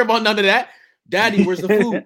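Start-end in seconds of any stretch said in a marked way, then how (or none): 1.1-2.0 put-on hungry kid. Voicing a hungry son.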